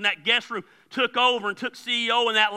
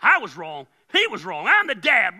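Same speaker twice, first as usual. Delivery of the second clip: retold angry retort; 4 dB louder than usual. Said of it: "I got mad at her".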